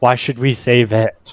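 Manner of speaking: normal talking voice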